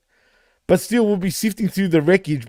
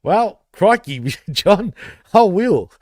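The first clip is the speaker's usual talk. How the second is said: mock Aussie; 4 semitones higher, 3 dB louder, slower than usual. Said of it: "that's called the Ocker accent".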